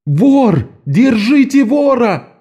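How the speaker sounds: высоко и медленно, во весь голос; завопить на всю улицу; вопль. A narrator's reading. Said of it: "возопила голосом поразительной мощи". (Стролла кричит из окна на улицу)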